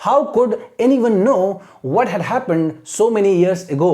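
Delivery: very slow read with a rise on how; slow teacher demo; slow question reading. Shown as a demonstration. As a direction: read the question slowly for students to copy. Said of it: "इस हिसाब से पढ़ना".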